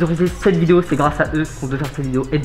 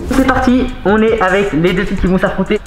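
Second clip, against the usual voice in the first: excited; 3 semitones higher, 5 dB louder than usual. Real, not acted. Host kicks off the battle.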